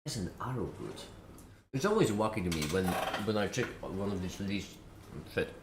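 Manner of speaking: talking with food in mouth; words round a bite of food; mouth full. Real, not acted. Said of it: "Sorry for eating my mouthful".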